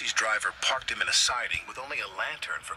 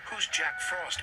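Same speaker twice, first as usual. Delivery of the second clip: nervous; 6 semitones higher, slower than usual. A narrator's reading. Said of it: "Percy whistled nervously".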